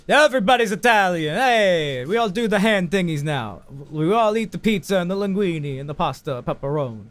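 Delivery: big, high Italian caricature; mock Italian accent. Mock Italian impression of everybody.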